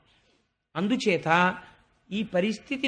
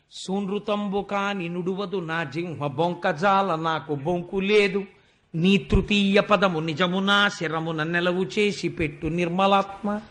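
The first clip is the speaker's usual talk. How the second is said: chanted verse, drawn out in a singing lilt; poem recitation. Acted. Storyteller opening the Vamana episode, chanting the verse. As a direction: intone the padyam like a temple reciter.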